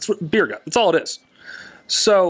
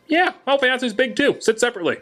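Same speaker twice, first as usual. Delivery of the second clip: mocking the employee; 9 semitones higher than usual. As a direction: drag it out to mock his tactlessness. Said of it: "I'll just never forget this man".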